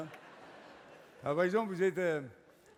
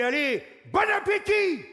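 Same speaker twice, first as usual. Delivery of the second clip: shouted high cheer to rally the table; mock pep cheer; 11 semitones higher, 7 dB louder than usual. Friends rallying at dinner, shouted mock cheer. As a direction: cheer everyone on, much higher and louder. Encouraging each other at dinner.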